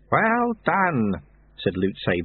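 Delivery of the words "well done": beaming. A narrator's reading.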